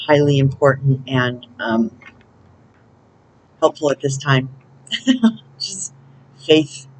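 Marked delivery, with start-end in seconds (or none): 6.4-6.9 FAITH said firmly as a word on its own; single emphatic "faith". Real, not acted. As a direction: put firm weight on "faith". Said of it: "I can't say it more emphatically".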